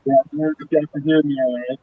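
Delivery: muffled, like talking underwater; muffled bad call line. Real, not acted. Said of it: "Like, muffled".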